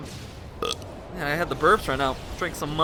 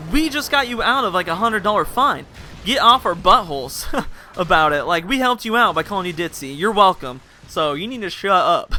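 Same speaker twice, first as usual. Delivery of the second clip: louder, exasperated telling-off; indignant retort; 4 dB louder than usual. Retold or imitated. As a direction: put her in her place, half laughing. Snapping back at the ungrateful girl.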